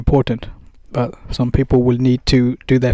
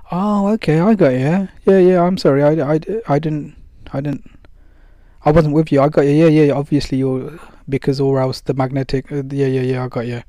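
flustered mum; 3 dB louder than usual. Pretend. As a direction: play the mother caught out, sorry and eager to agree. Mum apologising, won over.

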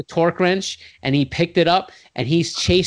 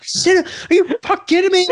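much higher, incredulous retort; outraged disbelief. Retold or imitated. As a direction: throw the words back at him, high and stunned.

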